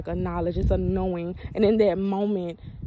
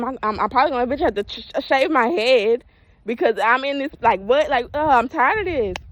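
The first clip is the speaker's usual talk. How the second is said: fast, higher, louder frustrated rant; agitated rant; 4 semitones higher, 5 dB louder than usual. Retold or imitated. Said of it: "I said".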